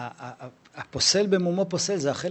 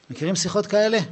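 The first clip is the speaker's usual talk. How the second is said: ordinary delivery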